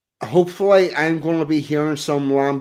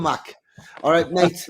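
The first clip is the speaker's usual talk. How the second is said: Liverpool accent; 2 semitones higher than usual. Shown as a demonstration. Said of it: "a Liverpool accent".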